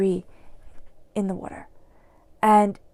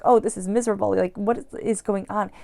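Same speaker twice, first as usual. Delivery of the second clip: louder, strained complaint about feeling sick; miserable whine; 4 dB louder than usual. Retold or imitated. Fed-up person sick with a cold, whining about feeling miserable. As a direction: moan as if stuck in bed with a cold.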